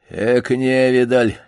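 медленно, хрипло пренебрежительно; бывалый пёс фыркает из угла; хриплый голос. Acted. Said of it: "послышался хриплый голос". (хрипло и насмешливо)

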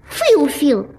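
mushy lisp; words mashed by tongue; swollen tongue. Acted. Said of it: "грешневая каша во рту".

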